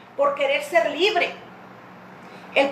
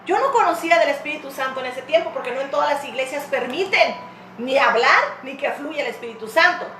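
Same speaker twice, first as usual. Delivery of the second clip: ordinary delivery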